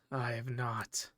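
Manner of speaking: slow breathy whisper, no voice; a villain's vow said in a slow whisper. Real, not acted. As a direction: hiss it under your breath, slowly. Villain line in the game.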